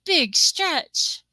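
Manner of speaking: high cooing, rising at the end; cooing at a cat. Retold or imitated. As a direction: coo it like praising a cat. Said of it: "nobody says".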